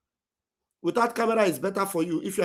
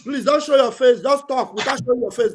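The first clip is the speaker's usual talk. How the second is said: louder, firmer repeat of the request; louder plea; 5 semitones higher, 4 dB louder than usual. Real, not acted. Pastor to the caller on camera, louder plea. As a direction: make sure the caller finally hears. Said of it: "repeated instruction".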